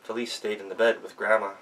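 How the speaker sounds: ordinary delivery, nothing marked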